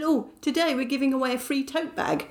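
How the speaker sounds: a hint of an upbeat shop assistant offering a freebie; cheery shop assistant. Cashier at the counter offers her a free tote bag, mildly chirpy. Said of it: "she said".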